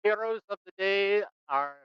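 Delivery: high, ringing hear ye call; town crier. Acted. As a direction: announce it like an old European town crier. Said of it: "start doing kinda like the town crier".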